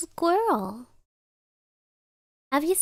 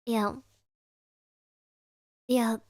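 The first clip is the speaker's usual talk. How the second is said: ordinary talk, nothing marked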